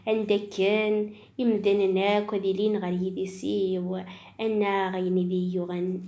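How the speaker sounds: measured, lilting poetry reading; reading a poem aloud; poem recitation. Acted. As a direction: recite verse line by line, a little softly.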